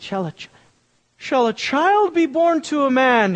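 the line as an eloquent Shakespeare would say it; smooth eloquent version. Retold or imitated. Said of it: "saying it eloquently and beautifully".

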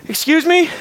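exasperated indignant excuse me. Retold or imitated. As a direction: sigh it out, fed up with the messenger. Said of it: "He's exhausted".

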